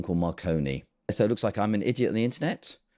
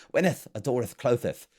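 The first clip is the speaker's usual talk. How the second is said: mock-archaic recital with lisped endings; hammed-up olde English, slowing and dropping; mock Shakespeare. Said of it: "it's not Shakespeare".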